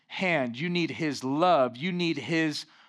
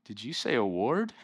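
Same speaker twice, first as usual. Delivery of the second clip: Grinch voice; 6 semitones lower than usual. Retold or imitated. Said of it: "he looks back and he goes".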